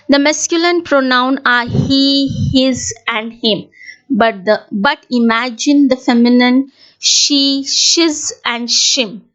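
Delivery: measured classroom poem recital; poem recitation. Shown as a demonstration. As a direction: recite it carefully to a class, line by line. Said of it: "I'll be reciting the poem for you".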